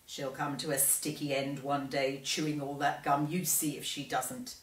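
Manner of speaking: put-on low, soft old woman's grumble; disapproving old lady; grumbling grandma. Grandma voiced.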